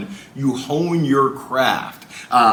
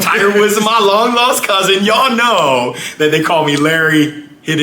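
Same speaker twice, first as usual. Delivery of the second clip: higher and louder, playful boast; excited joke; 8 semitones higher, 6 dB louder than usual. Real, not acted. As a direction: brag it up, grinning. Bragging joke about golf.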